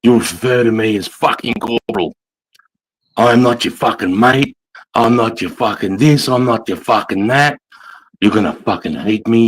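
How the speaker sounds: lightly voiced instructor laying down the law; corporal's first speech to new recruits, lightly acted and menacing; drill corporal. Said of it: "And I'll be like".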